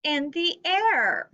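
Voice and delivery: put-on example sentence read slowly for children; slow read aloud. Shown as a demonstration. Teacher reads example sentence slowly to students. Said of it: "our example says".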